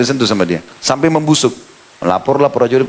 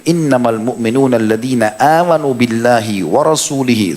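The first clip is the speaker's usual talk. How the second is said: measured, chanted recitation of the verse; Quran recitation. Acted. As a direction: recite it like in prayer.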